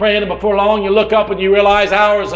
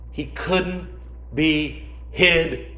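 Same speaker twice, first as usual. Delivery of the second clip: soft, intimate sermon hush; hushed preaching; 12 semitones lower, 12 dB quieter than usual. Real, not acted. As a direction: pull them in with a hush.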